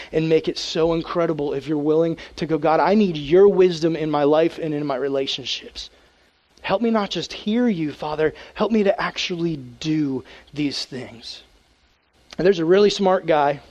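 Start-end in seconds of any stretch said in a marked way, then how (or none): 2.6-11.4 hushed humble prayer. Pretend. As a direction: ask God gently. Voicing a prayer for wisdom.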